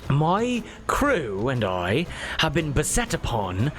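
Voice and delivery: a lightly voiced captain telling his tale; weary pirate captain. The captain tells the noble how shrimp people sank his ship, lightly voiced. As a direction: recount the shipwreck like a tired old salt.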